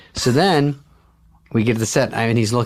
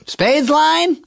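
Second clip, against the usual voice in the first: high mock director; 4 dB louder than usual. Director prompting missed line.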